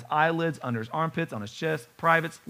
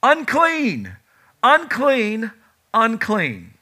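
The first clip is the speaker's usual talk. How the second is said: loud, high wailing cry of a leper; a leper's anguished street cry; crying out unclean; 6 semitones higher, 6 dB louder, much slower than usual. Acted. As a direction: call it out to warn the street away. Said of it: "cry out".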